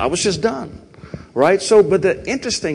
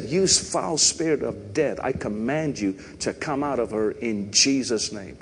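mild, restrained retelling of a command; toned-down nice version; 2 semitones lower, 5 dB quieter than usual. Retold or imitated. Preacher retelling his prayer to the congregation, kept nice. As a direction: say the command nicely, without yelling. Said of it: "I'm saying it nice, but I really said it authoritative".

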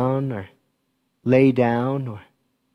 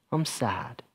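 softer, small "I'm sad"; quiet admission; 10 dB quieter than usual. Pretend. A child confiding in mom or dad, softly. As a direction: let it slip out barely voiced.

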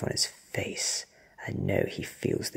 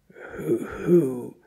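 higher, louder stuttered word; stuttering victim; frightened stutter; 3 semitones higher, 7 dB louder than usual. A narrator's reading. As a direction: stammer it out in fright. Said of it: "he stutters".

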